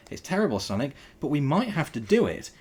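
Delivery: high, loud, anxious babble; babbling. A narrator's reading. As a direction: tumble the words out in a panic. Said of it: "he babbled".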